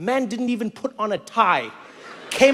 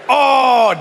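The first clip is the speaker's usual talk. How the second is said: acted onlooker's gasped reaction; mock alarm; 7 dB louder than usual. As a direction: react like kids seeing trouble coming. Voices onlookers watching dad rage.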